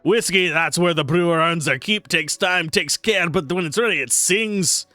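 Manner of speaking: Torvin dwarf voice. Acted. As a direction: play the boisterous tavern brewer sizing up the newcomer. Dwarf tutorial lines.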